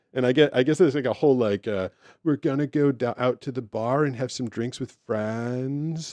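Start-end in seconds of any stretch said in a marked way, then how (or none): 2.3-6.2 put-on Boston accent with lots of lip movement. Showing how that accent sounds: imitating a lip-heavy accent. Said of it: "a lot of lip action going on with that accent".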